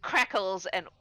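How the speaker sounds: dramatic, drawn-out scene-setting; game master narration. Acted. Game master describes a monster's death to players, dramatic narration. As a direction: narrate the monster's death, slowing for the final crackle.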